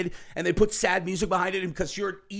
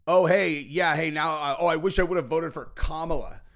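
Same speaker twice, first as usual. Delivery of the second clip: a lightly voiced mock voter, fumbling and sheepish; mocking regretful voter. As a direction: play a flustered voter admitting regret, only half-acted. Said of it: "don't take criticism of Trump ... as some kind of".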